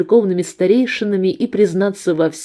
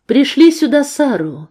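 shouted after them, higher and louder; calling out; 7 semitones higher, 4 dB louder than usual. A narrator's reading. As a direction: call it out across the room. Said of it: "крикнула я им вслед".

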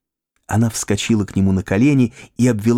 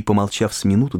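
plain reading voice

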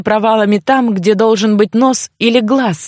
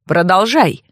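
understated spiteful taunt; mildly mocking, cold prompt; malicious mockery; 2 semitones lower than usual. A narrator's reading. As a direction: needle her with a touch of menace. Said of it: "со злой насмешкой произнёс он".

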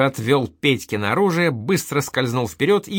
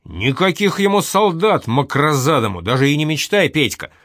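higher, louder furious order; father forbids his son the army, angry; angry forbidding; 4 semitones higher, 4 dB louder than usual. Acted. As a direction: shut the idea down hard. Old man forbids son.

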